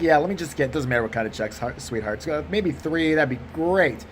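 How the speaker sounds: lightly voiced agreeable white guy; easygoing, polite white-guy customer voice. Comic choosing checks with the teller, white guy voice. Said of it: "my white guy voice just disappears".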